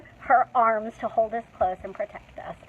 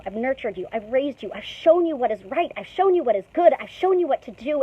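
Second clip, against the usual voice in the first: mild frustrated parent. Retold or imitated. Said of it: "God was like".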